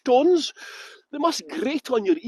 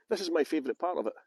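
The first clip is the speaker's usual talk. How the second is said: quick, hushed whisper, much softer; whispered confidence; 5 semitones lower, 7 dB quieter, faster than usual. Real, not acted. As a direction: lean in and share it secretly. Sharing a favourite garden spot.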